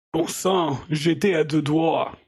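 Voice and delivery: a hint of a Russian accent in French, slow; weakly put-on Russian accent, drawn out. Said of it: "je vais imiter un accent russe, mais je le fais pas bien".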